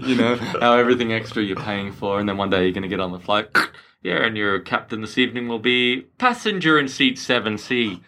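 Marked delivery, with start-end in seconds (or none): 4.0-8.0 pilot announcement. Acted. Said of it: "go into my Qantas routine".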